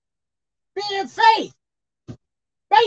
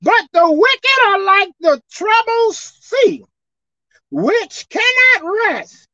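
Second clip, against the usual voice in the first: scripture reading; 6 semitones higher, 4 dB louder, slower than usual. Real, not acted. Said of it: "Let me read it again".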